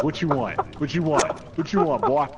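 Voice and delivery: cocky come-on, half in play; mock taunting. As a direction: goad them with a repeated challenge. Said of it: "I'm looking at Ash like".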